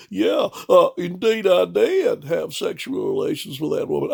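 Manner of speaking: lightly voiced politician owning up; a hint of a sheepish confession; Bill impression. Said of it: "You wanna come back to the microphone, Bill?".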